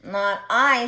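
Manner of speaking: a loud goose refusing. Acted. Goose turning down the hen, loud. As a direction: honk it out loud.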